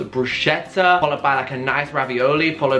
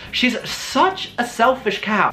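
mock bitchy; 8 semitones higher, slower than usual. Mock scolding the Mona Lisa.

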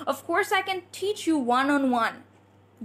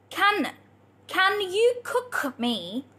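slow, higher, each ending sounded; slow pronunciation demo; 4 semitones higher, much slower than usual. Shown as a demonstration. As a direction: model each word slowly for learners. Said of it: "We're pronouncing the ending".

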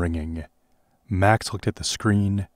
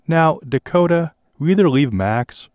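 high, louder threat; threatening; 8 semitones higher, 5 dB louder than usual. Acted. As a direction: lean on her with menace.

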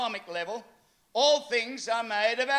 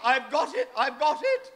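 mock yell; 2 semitones higher than usual. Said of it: "and yelling".

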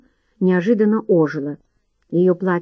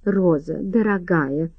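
usual speaking voice

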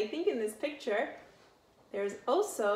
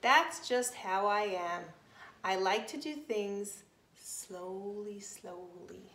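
sleepy yawning sloth. Acted. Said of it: "the sloth yawned and said".

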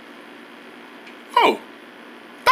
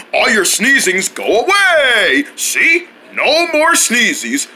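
TV ad voice. Acted. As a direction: pitch it like an infomercial. Commercial pitch.

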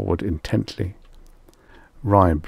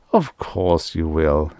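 genial; 2 semitones lower, slower than usual. Acted. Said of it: "Extroni said genially".

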